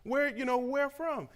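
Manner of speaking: eager Korean man. Retold or imitated. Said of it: "He's like".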